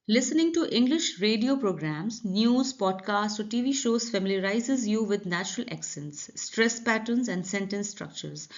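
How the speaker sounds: slow, clear, deliberate read-aloud; slow passage reading. Shown as a demonstration. Teacher reading the English passage to students, slow and clear. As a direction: read each word out slowly for learners.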